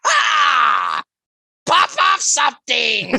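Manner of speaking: high, loud cartoon villain accent; Doof. Co-host doing Doof on request, loud cartoon accent. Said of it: "say it in the, in the Doof accent".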